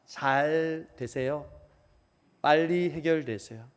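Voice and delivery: slow mock prayer. Mocking lip-service prayer.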